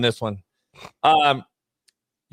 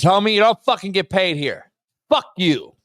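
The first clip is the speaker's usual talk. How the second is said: mock foreign accent; 6 semitones higher than usual. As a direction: drag it out high like a caricature. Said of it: "mock foreign voice".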